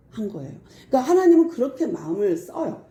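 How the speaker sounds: usual speaking voice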